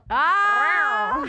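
high, loud startled cry; surprised shriek. Real, not acted. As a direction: squeal in surprise. Friend told to take top off.

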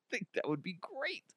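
breathless, voiceless laugh-talk; squeezed-out words, nearly all air; wheezing with laughter. Real, not acted. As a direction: barely get it out through laughter. Wheezes with laughter repeating himself.

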